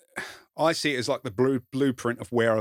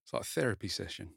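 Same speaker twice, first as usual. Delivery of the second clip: laughing; 9 dB quieter than usual. Real, not acted. Laughs at his own confession.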